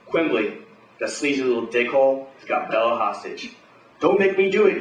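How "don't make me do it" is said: high, loud desperate scream; panicked high yell. Acted. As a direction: shriek it with a hostage at knifepoint. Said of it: "he screams".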